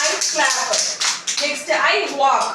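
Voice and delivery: very slow, stretched teaching model; slow model phrase. Shown as a demonstration. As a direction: say it slowly so children repeat. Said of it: "teacher models phrase slowly". (കുട്ടികൾക്കായി വളരെ പതുക്കെ)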